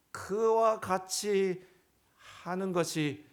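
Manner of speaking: slow emphatic question. Real, not acted. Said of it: "drawn-out question".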